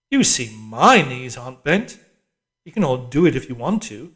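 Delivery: loud, bossy orders from the screen; harsh telescreen drill voice, shouting; barking drill instructress. A narrator's reading. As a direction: command the squad like a hectoring PE instructress. Instructress continues demonstration.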